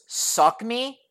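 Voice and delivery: "me" swooping up high. Retold or imitated. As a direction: imitate his question, lifting "me". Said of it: "says it with a raised inflection on the me".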